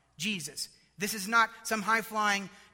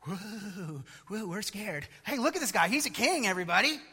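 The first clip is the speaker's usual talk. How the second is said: mock sarcastic Pilate; 4 dB louder than usual. Mocking Pilate's scornful sarcasm.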